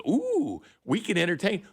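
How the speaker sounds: high, gushing mock of a TV host. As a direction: ham up the gushy host line. Mocking TV show hosts.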